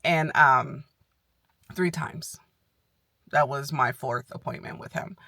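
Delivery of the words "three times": a soft unvoiced correction; whispered aside. Real, not acted. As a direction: whisper it to yourself in passing.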